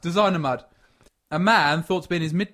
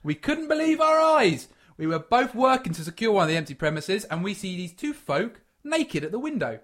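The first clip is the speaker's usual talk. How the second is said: Scottish builder giving his account; lightly performed Scottish workman, higher at the start; Scottish accent; 4 semitones higher than usual. Acted. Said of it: "But he's Scottish".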